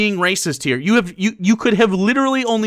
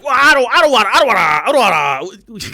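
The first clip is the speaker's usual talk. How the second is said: mock stammer; 3 semitones higher, 5 dB louder, faster than usual. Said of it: "he's like".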